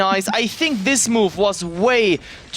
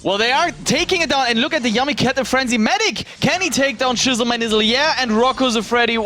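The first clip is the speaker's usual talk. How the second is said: raised-pitch match call; live play-by-play; 4 semitones higher, faster than usual. Real, not acted. Caster calling a team fight to viewers, lifted play-by-play. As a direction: follow the fight as it happens, slightly lifted.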